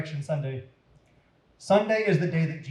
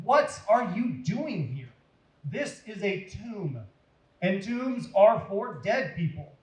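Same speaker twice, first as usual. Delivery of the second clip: angel asking; 4 semitones higher, slower than usual. Acted. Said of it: "The angel asked him".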